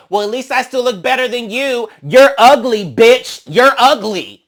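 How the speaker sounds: loud, high, spiteful insult; mock catty yell. Mimicking Mariah calling her ugly, loud and spiteful. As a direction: hurl the insult shrill and loud. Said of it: "Mariah's like".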